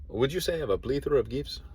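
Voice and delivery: mock Spanish accent, plethora said plee-thora; quoting the Three Amigos movie in a Spanish accent; Three Amigos line. Vlogger quoting Three Amigos, mock Spanish accent. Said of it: "that's what they say in Three Amigos".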